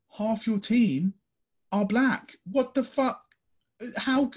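high, loud, slowed disbelief; real exasperated outburst. Real, not acted. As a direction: let the outrage boil over. Exasperated outburst at racist fans.

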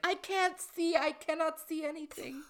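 very high, panicked wail; Mantis blinded. Acted. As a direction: run blind and shriek. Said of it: "I like that voice".

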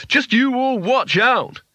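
high-pitched, drawn-out manic cry; wild shout. Acted. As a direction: crow it wildly, giddy with power. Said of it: "he shouted wildly".

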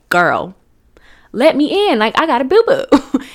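mock-urgent childish begging to be let in; desperate plea at the door. Little girl begging her sister through the bathroom door, loud and urgent.

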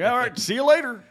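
high, loud polite farewell; chirpy polite goodbye. Retold or imitated. Guy imitating his overly polite goodbye to the dentist. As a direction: sound extra nice for the dentist. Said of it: "I'm like".

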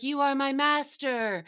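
a hint of witchy incantation; witch. Witch addressing her master, lightly put-on witch voice. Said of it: "as a witch".

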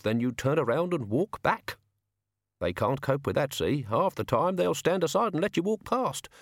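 lightly voiced old hand schooling youngsters; measured, instructive gang boss; seasoned crook giving advice. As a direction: pass on the tricks of the trade. Mister Brown teaches his method.

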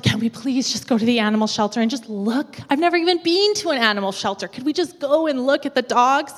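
mildly hammed-up child's plea; wheedle, lifting the pitch midway; pleading. Child asking mom to visit the shelter, pleading.

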